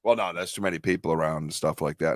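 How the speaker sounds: low, matter-of-fact doubter imitation; dismissive sceptic. Man imitating doubters explaining away his sightings, dismissive.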